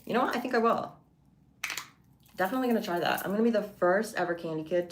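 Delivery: high, eager mock delight; mock excitement. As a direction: play it up as a silly yes. Mock enthusiasm at silly idea.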